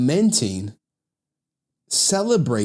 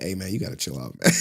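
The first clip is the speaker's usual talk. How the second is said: laughing; 6 semitones lower, 4 dB quieter, faster than usual. Retold or imitated. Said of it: "I was like".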